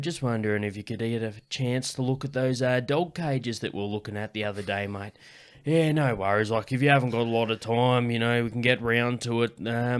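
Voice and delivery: put-on broad Central West New South Wales farmer accent, lightly done; rural NSW accent. Farmer leaving a voicemail for the welder, broad rural NSW accent. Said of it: "Getting ready for the impression".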